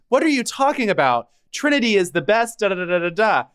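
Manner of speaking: high, fast indignant fan voice; mock defensive fan. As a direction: squeal it out like a defensive stan. Imitating defensive fan account.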